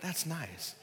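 mock polite indifference; unimpressed. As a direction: shrug it off, barely moved. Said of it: "that's not awe like".

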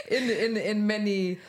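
choked-up sincerity breaking into a laugh; slow, heartfelt, laughing off the welling feeling; getting emotional. Real, not acted. Telling close friends they changed their life, getting emotional. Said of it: "I'm gonna get emotional".

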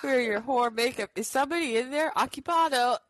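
high mock reenactment; TikTok sound. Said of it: "It's a sound on TikTok".

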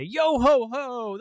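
high, loud, drawn-out sailor call; playful pirate cheer. Acted. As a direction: stretch it out like a pirate at play. Avery plays at sailing.

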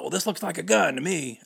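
high, loud sneering claim; mock cop sarcasm. Cop mocking driver over a flashlight, high sneer.

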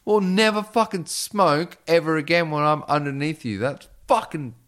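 high, loud disgusted telling-off; angry scolding. Retold or imitated. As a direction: scold him hard from below. Scolding the bed-wetter.

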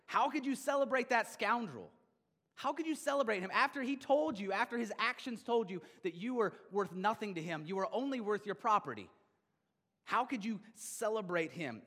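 put-on an older brother protesting bitterly to his father; bitter indignation. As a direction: demand it like the wronged older brother. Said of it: "and he is angry. He is indignant. He is bitter".

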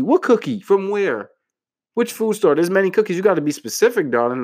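high, mocking questions; sassy disbelief. Boyfriend mocking the vague cookie offer, sassy and high. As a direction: tease her for being vague. Mock baffled reply to girlfriend.

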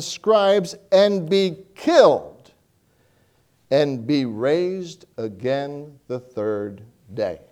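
slow, measured reading of the verse; scripture reading. Acted. Preacher reading Matthew to the congregation, slow measured. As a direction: read it slowly, weighing each phrase.

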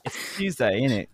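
attempted British chav catchphrase; imitated British accent, a touch of flair. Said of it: "now add some flair".

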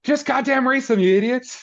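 hammed-up shriek of a fed-up dad; mock exasperated yell. FP on the prison phone snapping at the dense boys, hammed-up high yell. Acting out FP losing patience.

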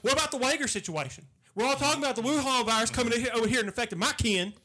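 lightly voiced Southern challenger; Southern redneck. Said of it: "A redneck that's really up to date".

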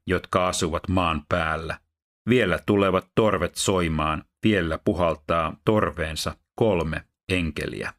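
measured, solemn Bible reading; steady, dignified reading voice; scripture reading. Acted. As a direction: read the passage aloud to a congregation.

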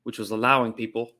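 sustained put-on Australian accent; host the show as a mock Aussie, in accent. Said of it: "did the whole show tonight in Australian accent".

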